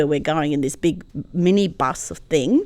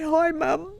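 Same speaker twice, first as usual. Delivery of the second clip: tender hello; 9 semitones higher than usual. Real, not acted. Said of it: "And I say".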